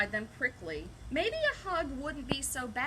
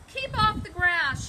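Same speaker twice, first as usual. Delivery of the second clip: higher, louder shout; 8 semitones higher, 8 dB louder than usual. Acted. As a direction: shout the order, pitched up. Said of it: "shouted Hank".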